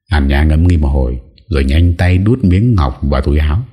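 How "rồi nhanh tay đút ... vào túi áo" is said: ordinary delivery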